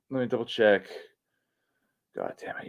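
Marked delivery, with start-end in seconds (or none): 2.2-2.7 whispered curse. Real, not acted. Muttering after checking.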